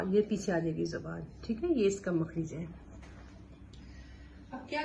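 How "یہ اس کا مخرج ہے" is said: usual speaking voice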